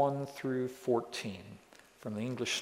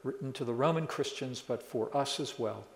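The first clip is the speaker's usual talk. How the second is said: prayer. Real, not acted. Closing prayer before the sermon.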